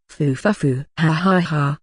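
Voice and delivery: a fanatic's odd rhythmic laugh; strange laugh. Acted. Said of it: "he starts laughing".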